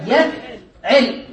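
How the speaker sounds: يفعل said slowly, each sound drawn out; teacher stretching يفعل so students hear it; slow demo. Shown as a demonstration. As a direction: spell out يفعل slowly for the pattern. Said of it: "على وزن ماذا".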